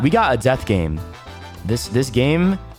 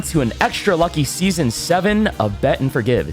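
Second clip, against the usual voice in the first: game show host. Acted. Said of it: "I'm your host, Cupid King".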